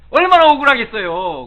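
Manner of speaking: high, very loud exclamation; loud indignation. Real, not acted. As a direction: burst out on behalf of the wronged. Empathising with the falsely accused.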